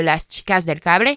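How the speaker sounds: put-on Spanish title said in a careful Spanish accent; a mild attempt at a Spanish accent, rolling the words out. Naming a Spanish series for podcast listeners, in a light Spanish accent. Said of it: "pardon pour mon accent".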